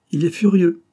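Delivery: put-on old bandit chuckling over a jealous man; laughing. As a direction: say it with a laugh at his rival. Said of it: "dit Cascario en riant".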